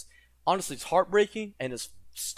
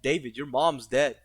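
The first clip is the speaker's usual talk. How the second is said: voicing the dealer. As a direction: play the smug dealer laying out his leverage. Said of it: "The dude understands that".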